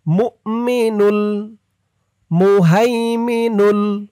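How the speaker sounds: মুমিনুল মুহাইমিনুল read with the lam joined; connected recitation; joined names. Shown as a demonstration. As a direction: link the name to the next lam. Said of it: "এই মিম দিয়ে এই হামজাকে ধরতে হবে".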